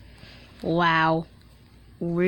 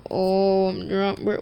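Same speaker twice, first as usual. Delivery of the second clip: put-on drunk voice; 2 semitones lower, slower than usual. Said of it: "this is what I say when I'm drunk".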